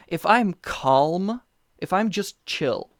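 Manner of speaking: slow and easy, like you're unbothered; slow calm voice. Shown as a demonstration. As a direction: drawl it out, totally chill. Shows being calm.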